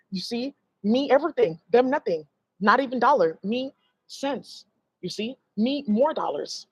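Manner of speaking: lightly mocking pidgin voice, slowing at the end; mock broken English. Mocking how karmics brag about money, lightly voiced broken English. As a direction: mimic their goofy broken boasting. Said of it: "That's how they talk".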